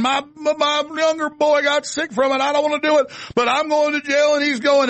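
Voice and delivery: imitating crying parent. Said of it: "And they're crying, saying".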